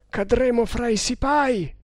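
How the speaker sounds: high-pitched worried protest; alarmed warning. A narrator's reading. Rider warning companion of sepoys ahead, alarmed.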